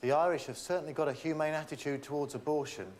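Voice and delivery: genuinely meant. Acted. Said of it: "that everyone else would say sarcastically".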